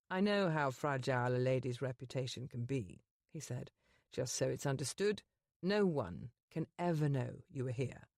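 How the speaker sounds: the Duke's voice. Acted. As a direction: speak down to her as a proud duke. Duke's dialogue.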